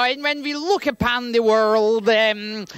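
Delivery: slow solemn rabbi sermon; lightly voiced rabbi eulogy. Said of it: "I put on my rabbi voice and go".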